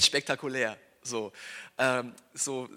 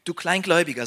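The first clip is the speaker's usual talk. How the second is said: Jesus rebuking; 6 dB louder than usual. Acted. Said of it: "sagte er".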